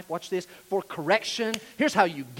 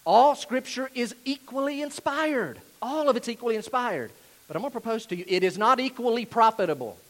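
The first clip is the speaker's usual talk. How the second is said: raised, emphatic "equally" each time; deliberate proclamation; 5 semitones higher, 4 dB louder than usual. Real, not acted. Preacher getting a tricky point right, deliberate and emphatic. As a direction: declare it carefully with pulpit force. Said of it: "Gotta get this right".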